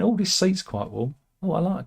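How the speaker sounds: high-pitched pleased impression; Kim Jong-un. North Korean leader settling into a warm seat, high impression. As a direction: put on a high little leader's voice. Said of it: "I imagine Kim Jong-un talks like that".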